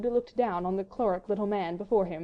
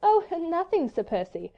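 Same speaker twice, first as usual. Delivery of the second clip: high, put-on lightness; somewhat forced gaiety; 9 semitones higher, 3 dB louder than usual. A narrator's reading. Wife brushing off her husband's question, with forced gaiety. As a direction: open high and brightly, pretending nothing is wrong. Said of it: "with a certain amount of gaiety".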